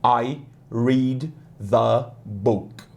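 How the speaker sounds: "the" said with the tongue between the teeth; slow "I read the book", tongue out on "the". Shown as a demonstration. Teacher showing "the" to Brazilian students, tongue between teeth. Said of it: "com a língua entre os dentes".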